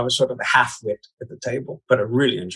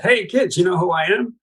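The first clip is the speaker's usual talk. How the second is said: put-on much higher, bright puppet-character voice calling to the kids; Brighella; 7 semitones higher than usual. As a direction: greet the children like a cheeky stock puppet. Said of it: "And Brighella said".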